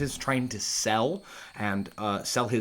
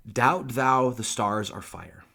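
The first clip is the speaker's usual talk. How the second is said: recited love poem; 4 dB louder, slower than usual. Acted. Reads the love poem aloud.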